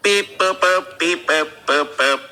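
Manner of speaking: robot beeps, lightly voiced; toy robot voice. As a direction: beep like a little robot. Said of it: "can you just give me some beep boops".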